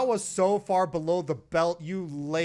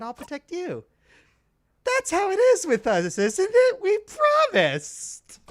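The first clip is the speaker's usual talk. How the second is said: a hint of an alarmed companion; worried girl character; 3 semitones higher, 3 dB quieter, faster than usual. Bonnie questioning her friend about the fall, worried.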